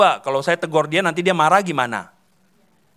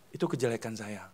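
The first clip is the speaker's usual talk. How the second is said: softer, lower "Itu kejelekan saya" dropped to near murmur; quiet repeat; 6 semitones lower, 10 dB quieter than usual. Shown as a demonstration. Preacher repeating his own fault, softer. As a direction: say the admission again to yourself.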